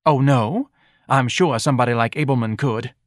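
lightly voiced nagging wife. Mrs Levy nags.

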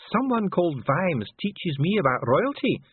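slow, high dwarf complaint; miserable Dee. A narrator's reading. Dwarf lectured on royalty by the envoy, miserable. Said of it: "said Dee miserably".

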